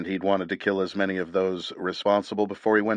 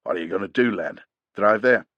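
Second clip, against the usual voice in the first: put-on grieving old warrior. A narrator's reading. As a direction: speak as a broken old fighter. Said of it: "old warrior".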